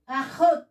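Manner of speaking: "Ahot" said clearly as a-KHOT with a throaty kh; Hebrew ahot. Shown as a demonstration. Teacher modeling the Hebrew word for sister for students. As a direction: sound out "Ahot" slowly for the class. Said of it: "e um tav final".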